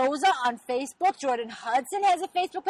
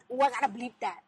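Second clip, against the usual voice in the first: ordinary talk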